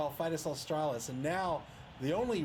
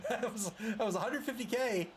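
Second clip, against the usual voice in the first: laughing; 5 semitones higher than usual. Real, not acted. Laughing, repeating the amount.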